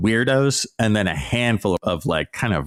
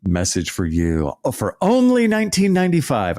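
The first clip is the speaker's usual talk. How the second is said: mock salesman pitch; 2 semitones lower than usual. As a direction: parody a huckster's sales message. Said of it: "they have this guy come out and".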